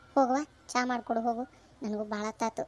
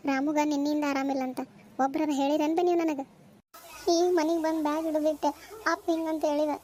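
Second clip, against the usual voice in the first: upset, raised-pitch complaint; tearful; 4 semitones higher than usual. Acted. Upset girl reproaches the elders for not telling her, tearful. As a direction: plead as if you came running in tears. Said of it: "ಯಾಕ್ ಅಳ್ಕೊಂಡ್ ಬಂದಲ್ಲ".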